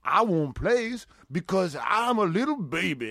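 slow, mock whiny little-baby voice. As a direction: whine it like a sulking child. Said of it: "And he's like".

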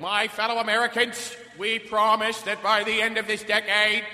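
lightly voiced presidential address; mock solemn promise like JFK; understated JFK speech parody. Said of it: "So it was like".

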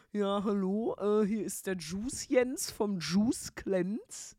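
very slow, drawn-out cold-caller voice; slow mock customer-service caller; imitated phone caller. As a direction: put on a dragging, sing-song caller voice. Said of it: "überfordert von diesem Typ".

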